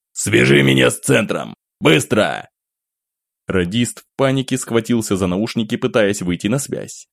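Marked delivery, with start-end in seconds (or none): 0.1-2.5 barked command, louder; sharp, loud commanding voice; sharp loud order. Acted. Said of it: "Его голос прозвучал резко и громко". (резкий громкий приказ)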